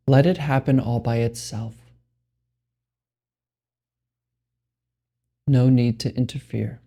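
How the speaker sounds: slow, spacious meditation guidance with long pauses; guided meditation. Acted. Meditation guide telling listeners there is nothing to do, unhurried guided meditation. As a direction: lead them unhurriedly into stillness, pausing between phrases.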